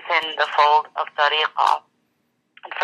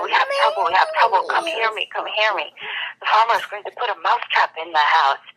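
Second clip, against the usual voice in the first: raised, urgent cry of warning; alarmed call; 4 semitones higher than usual. Acted. Mouse warns animals of danger.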